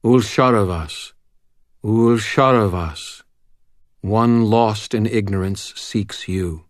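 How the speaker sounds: slow, shaking summoning chant; ritual incantation. Acted. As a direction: intone it like a wizard's ritual. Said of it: "My voice shook oddly, skittering around tones".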